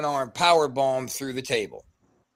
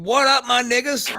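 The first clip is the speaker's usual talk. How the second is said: retold scream; 8 semitones higher, 5 dB louder than usual. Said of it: "walk through that curtain and scream".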